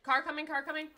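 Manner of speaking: warning shout. Real, not acted. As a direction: yell the car warning. Warning of a car.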